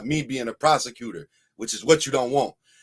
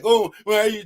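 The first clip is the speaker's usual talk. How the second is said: shocked lady; 9 semitones higher, 6 dB louder than usual. Retold or imitated. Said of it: "she was like".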